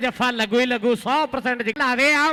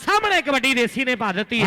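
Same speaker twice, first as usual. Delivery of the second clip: frantic rural sports commentary; 3 semitones lower, faster than usual. Real, not acted. Live play-by-play, fast.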